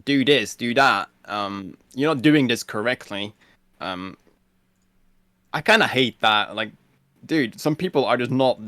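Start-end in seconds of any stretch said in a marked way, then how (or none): 0.1-3.3 mock bossy orders, louder; imitated raid backseat driver; bossy raiders. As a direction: lightly imitate a pushy teammate giving loud corrections. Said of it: "there's always people that are like".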